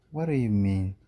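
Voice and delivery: wife snaps at husband who cannot swim; angry. Acted. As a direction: demand it with a flare of anger. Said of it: "She's very angry".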